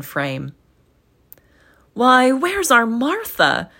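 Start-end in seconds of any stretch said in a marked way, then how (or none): 1.9-3.7 higher, louder, slow father's call; a father looking round for his daughter; mildly raised fatherly call; Bob crying out. Acted. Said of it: "cried Bob Cratchit".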